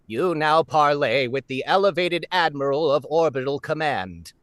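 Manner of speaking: alien admiral voice. Acted. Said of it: "the alien voice that is specifically in the Alien Admiral audition".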